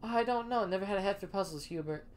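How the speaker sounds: a hammed-up frontier sidekick; cowboy drawl. Gabby character again.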